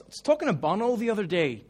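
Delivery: put-on light Irish accent, casual name-drop. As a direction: say it like an Irishman in passing. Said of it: "he's got this thick Irish accent".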